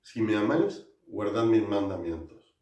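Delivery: loud proclaiming verse; proclaimed scripture. Shown as a demonstration. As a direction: proclaim it to the congregation. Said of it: "Y dice así".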